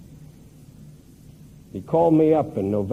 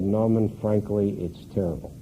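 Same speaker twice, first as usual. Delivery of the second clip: tearful; 5 semitones lower, 5 dB quieter than usual. Retold or imitated. Widower Woody telling Norman about his loss, tearful. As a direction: let the grief sink the words. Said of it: "his eyes welled with tears".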